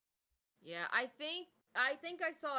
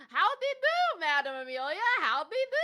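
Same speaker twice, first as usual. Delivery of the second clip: silly high greeting; 9 semitones higher, 11 dB louder than usual. Pretend. Silly greeting to a chat viewer.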